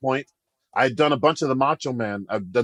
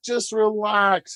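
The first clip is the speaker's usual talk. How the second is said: slow, higher-pitched soothing advice; retold reassurance; 8 semitones higher, much slower than usual. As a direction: draw it out to settle someone's nerves. Colleague calming a nervous performer.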